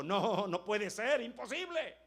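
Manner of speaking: high, loud disbelief rising to a yell; incredulous shout. Acted. Thomas shouting his disbelief at the disciples, loud and high. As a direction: Thomas refusing with all his lungs.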